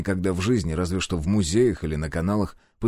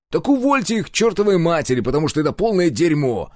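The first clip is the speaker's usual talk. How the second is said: higher, louder indignant outburst; 9 semitones higher, 4 dB louder than usual. A narrator's reading. Hero angrily rejects the analysts' plan. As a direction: blow up in outrage. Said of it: "возмутился я".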